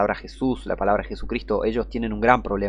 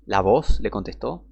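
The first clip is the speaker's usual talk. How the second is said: slow, disbelieving rise on voz; incredulous question; 2 semitones lower than usual. Shown as a demonstration. Preacher questioning a bad Bible translation, incredulous. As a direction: repeat it as if you can't believe it. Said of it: "Acá están narrando mal las cosas".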